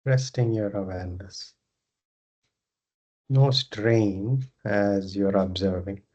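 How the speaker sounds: unhurried meditation guidance with long pauses; guided meditation. Acted. Leads a yoga nidra meditation.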